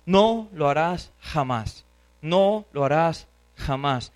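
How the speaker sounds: slow, drawn-out "No", "jamás" set apart; emphatic negative. Shown as a demonstration. Preacher shows the Greek strongest negative, slow emphatic negative. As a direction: lean slowly on "No" and land on "jamás". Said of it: "la forma más fuerte de expresar".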